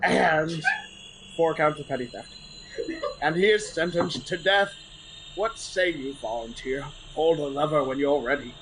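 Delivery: stern executioner reading charges. Acted. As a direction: proclaim the sentence to the crowd. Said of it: "that was your best character voice yet".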